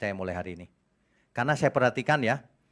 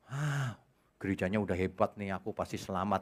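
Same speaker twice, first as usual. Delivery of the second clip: soft, smug voice sure of being saved; hushed, self-satisfied imitation; mock complacent churchgoer; 4 semitones lower, 7 dB quieter than usual. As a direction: mimic lazy confidence.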